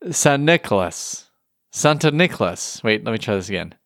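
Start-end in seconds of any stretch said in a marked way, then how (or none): 0.1-1.3 drawn-out Saint Nicholas with a put-on Dutch accent. Shown as a demonstration. Podcast host showing how the Dutch say it, in a Dutch accent. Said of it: "the best Dutch accent I've ever heard". 1.7-2.8 slightly higher, put-on Dutch accent. Shown as a demonstration. Podcast host trying out the name's origin in a Dutch accent. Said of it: "the best Dutch accent I've ever heard".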